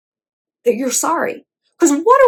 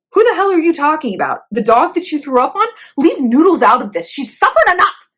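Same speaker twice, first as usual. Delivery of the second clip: indignant mom; 5 semitones higher than usual. Acted. Imagined mom scolding her hungover child.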